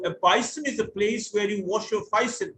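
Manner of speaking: basin said as bison, Cockney style; a light Cockney "bison" for basin; Cockney accent. Shown as a demonstration. Teacher imitating a Cockney speaker, lightly Cockney. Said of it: "That's typical Cockney English".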